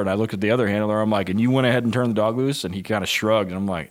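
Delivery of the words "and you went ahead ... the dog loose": incredulous scolding. Retold or imitated. Reenacts scolding the other handler.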